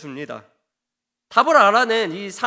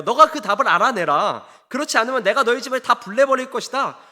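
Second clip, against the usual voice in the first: mildly menacing ultimatum, slightly raised; retold threat; 3 semitones higher, 4 dB louder than usual. Townsmen warning Samson's wife to get the answer, mock threatening. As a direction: deliver a mock threat with firm force. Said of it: "이런 식으로 협박을 해요".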